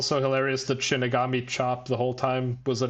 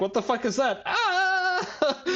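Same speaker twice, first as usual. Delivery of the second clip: high shriek cut with laughter; laughing hammed-up high scream; mock panicked scream; slower than usual. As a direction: shriek at the monster in fright. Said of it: "He's screaming in his face".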